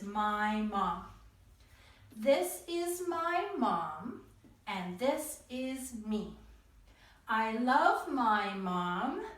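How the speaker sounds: put-on slow, singsong reading for children; poem reading. Shown as a demonstration. Teacher reading the Mother's Day poem to kids, slow and lilting. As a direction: read it slowly, lilting each line.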